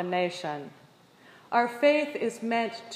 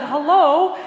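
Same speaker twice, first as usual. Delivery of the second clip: laughing hello; 6 semitones higher, 13 dB louder than usual. Retold or imitated. Flustered greeting mid-fall.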